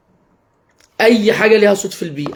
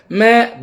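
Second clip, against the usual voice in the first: goat bleat; 3 semitones higher, much slower than usual. Shown as a demonstration. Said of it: "بأسلوب فيه فرح ومرح ولعب".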